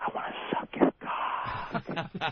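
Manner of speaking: slow, hushed whisper in the background. Retelling a prank call, speaking in the background: imitating a whisper. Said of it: "I just whisper".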